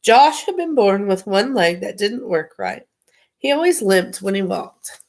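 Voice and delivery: put-on reading a children's book aloud; story narration. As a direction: read it like a bedtime story.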